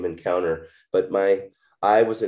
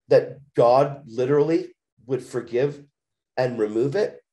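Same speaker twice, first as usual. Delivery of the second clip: higher, insistent, incredulous questions; retold urgent questioning; 5 semitones higher than usual. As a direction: press for a straight answer, replaying the disbelief.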